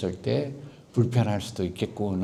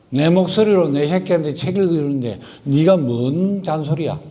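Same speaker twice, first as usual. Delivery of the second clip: defiant retort; 4 semitones higher, 4 dB louder than usual. Retold or imitated. Voicing mother's defiant retort.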